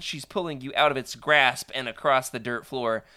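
ordinary talk, nothing marked

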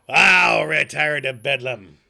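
slow, loud, exasperated outcry; exasperated shout. Acted. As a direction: throw up your hands, shouting. Scrooge's exasperated outburst.

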